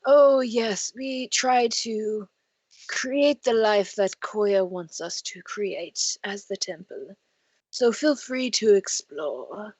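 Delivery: put-on slow, serene elderly priest; lightly voiced old gnome; very old man. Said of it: "we totally have an old man voice".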